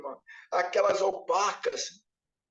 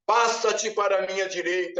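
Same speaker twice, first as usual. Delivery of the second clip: voice of authority; 2 semitones lower than usual. Retold or imitated. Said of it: "aquela voz de autoridade".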